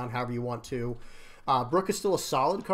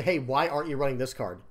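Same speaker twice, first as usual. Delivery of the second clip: confrontational ask. Shown as a demonstration. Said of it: "instead of making it confrontational".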